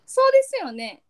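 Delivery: loud, high standard-Japanese そうですよね; standard Japanese intonation. Shown as a demonstration. Friend testing the standard tune, standard-Japanese そうですよね. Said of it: "標準語。".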